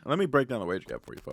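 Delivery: muffled, like under water; bad connection, bubbling audio; underwater. Real, not acted. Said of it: "you still sound like you're underwater".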